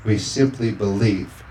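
preacher praying with fervor; fervent prayer. Acted. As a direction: pray it out with conviction. Pastor praying over congregation.

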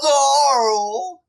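high, loud scolding cartoon call; Llamas with Hats. Quoting the ringtone for friends, high mock scolding call. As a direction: cry out the name like an appalled cartoon llama. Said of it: "I'm gonna say llamas with hats".

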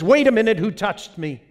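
Jesus asking. Acted. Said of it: "Jesus turns to the disciples and says".

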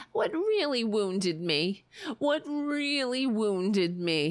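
slow, drawn-out sarcastic repeat; milk the line with slow sarcasm; mocking sarcasm. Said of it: "it has to be sarcastic".

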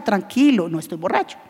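put-on drunk denial. Preacher voicing a drunk.

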